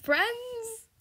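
high, soft hopeful ask; high hopeful friends; hopeful question. Real, not acted.

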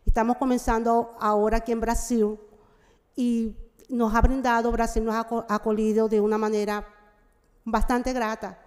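Portuguese mixed with Spanish; portunhol. Real, not acted. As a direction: speak in Spanish-tinged portunhol. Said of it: "Eu vou falar um pouco em portunhol".

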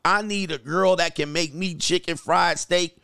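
ordinary talk

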